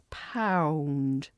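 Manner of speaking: "pound" stretched on a round "ow"; elongated pound. Shown as a demonstration. Teacher showing the round vowel, "pound" elongated. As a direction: draw out the "ow" in "pound", softly. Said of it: "we might elongate that pound".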